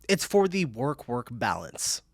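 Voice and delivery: slow, deliberate "work-work balance"; slow repeat. Real, not acted. Repeating a viewer's joke after laughing, slow and deliberate. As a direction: draw out "work-work balance" at an unhurried pace.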